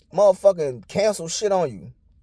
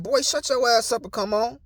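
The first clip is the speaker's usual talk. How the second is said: higher-pitched mock scolding; bossy woman imitated; 4 semitones higher than usual. Girlfriend to man following her in store, imitated bossy scolding. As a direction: imitate her ordering him along. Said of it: "and she like".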